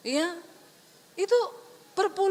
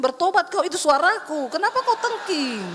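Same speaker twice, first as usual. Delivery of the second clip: louder, stern divine rebuke; voice of God; 4 dB louder than usual. Retold or imitated. Holy Spirit scolding the preacher for rebuking it, stern. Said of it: "kata Roh Kudus gini".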